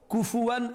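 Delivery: كُفُوًا recited with a gliding w, "kufuwan"; Quranic reading variant. Shown as a demonstration. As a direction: say كُفُوًا as "ku-fu-wan", linking the last syllable with w. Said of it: "Trois qira'a".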